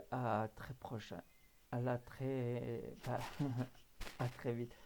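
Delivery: halting sign-off with a small laugh; flustered stumbling. Real, not acted. Host signing off to viewers, so moved he stumbles. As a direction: stumble over the goodbye, drawn out and restarting. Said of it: "j'en bafouille presque".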